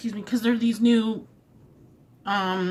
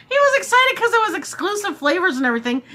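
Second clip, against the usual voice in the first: talking through laughter, higher; laughing; 12 semitones higher, faster than usual. Real, not acted. Vlogger recalling his reaction, laughing through words. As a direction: giggle the words out.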